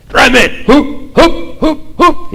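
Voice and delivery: high, rising chanted hups; rowing call. Shown as a demonstration. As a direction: drive the rowers with a rhythmic call. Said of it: "el que los está guiando dice". (el que guía a los remeros, grito rítmico de mando)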